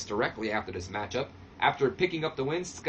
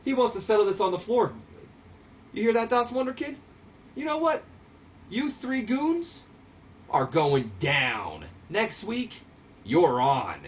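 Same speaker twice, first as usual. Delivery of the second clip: much higher, louder mock-indignant wrestler voice; Disco taken aback; 8 semitones higher, 3 dB louder than usual. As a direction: act offended, then accept the fight. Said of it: "he goes".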